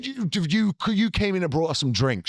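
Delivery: a hammed-up, indignant Tarantino rant; a playful Tarantino tirade at his co-host. Ranting at co-host in character.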